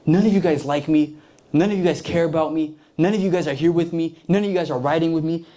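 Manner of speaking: mild mock whine, repetitive and self-pitying; whining. Saul complaining to his men, whining. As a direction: act out a complaining king, lightly whiny. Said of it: "he's whining at this point".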